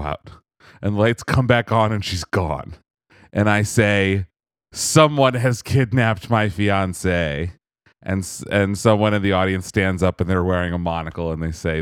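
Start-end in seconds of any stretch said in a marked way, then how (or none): 4.7-7.5 slow, hammed-up mystery proclamation; a touch of stage melodrama; mock dramatic announcement. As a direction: announce it slowly like a whodunit lead. Acts out his staged wedding announcement.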